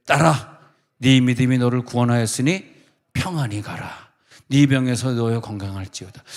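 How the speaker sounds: tender blessing. Acted. Jesus blessing the healed woman, gentle and solemn. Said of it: "예수께서 이르시되".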